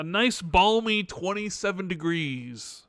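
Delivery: dry, slowed sarcasm about the weather; sarcastic. Real, not acted. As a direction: call freezing weather balmy, deadpan. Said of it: "I'm being sarcastic".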